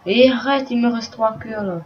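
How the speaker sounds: sharp, high, loud cry of alarm; alarmed shout. Real, not acted. Losing hearts while monsters attack.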